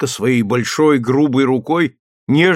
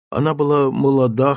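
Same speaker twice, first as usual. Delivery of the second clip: usual speaking voice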